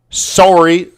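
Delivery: "Sorry" with a rounded sore-ee vowel; Canadian "Sorry", long o like sore. Real, not acted. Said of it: "I still say it like a Canadian, eh?".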